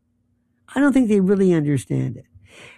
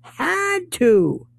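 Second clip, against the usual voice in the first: mock insistence. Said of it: "And people will say".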